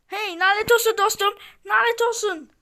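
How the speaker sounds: high, loud angry cursing; frustrated loud swearing. Real, not acted. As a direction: curse the game out loud. Cursing after losing the kill.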